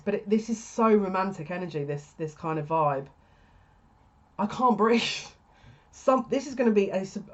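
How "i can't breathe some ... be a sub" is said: laughing. Real, not acted. Overwhelmed by reading, laughing.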